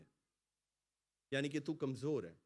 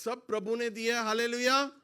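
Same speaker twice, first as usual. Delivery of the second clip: loud, high rising preacher's call; fervent preacher's shout; preaching at full force; 9 semitones higher, 9 dB louder than usual. Acted. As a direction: proclaim it to the church.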